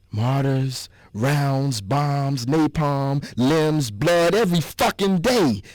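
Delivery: rising anger. Acted. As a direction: let the anger swell word by word. Angry list of war horrors.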